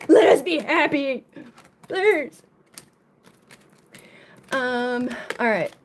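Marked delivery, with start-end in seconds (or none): 0.1-2.4 laughing plea. Real, not acted. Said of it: "or I'm gonna fucking flip".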